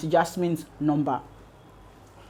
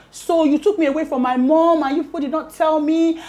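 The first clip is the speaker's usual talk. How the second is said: retold anger; 9 semitones higher, 3 dB louder than usual. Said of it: "But she was really angry".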